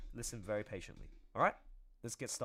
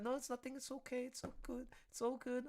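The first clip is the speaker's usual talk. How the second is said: mock dismissive mom; 10 semitones higher, 5 dB quieter than usual.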